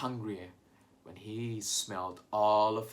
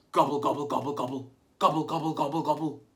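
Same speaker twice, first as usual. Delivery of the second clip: gobbling like a turkey; turkey gobble; 2 semitones higher, 4 dB louder, faster than usual. Shown as a demonstration. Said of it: "Can we all gobble like turkeys together".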